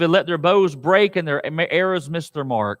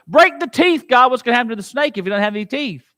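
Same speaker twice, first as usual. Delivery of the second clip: higher and quick; excited plea; 3 semitones higher, faster than usual. Acted. Preacher as David urging God, excited. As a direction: rush the plea out.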